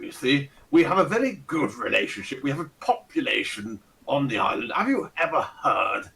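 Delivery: lightly voiced pompous old aristocrat; a hint of a Ronnie Barker toff; pompous old lord. Fat old lord greeting the party, lightly pompous and fussy. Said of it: "with the accent and everything".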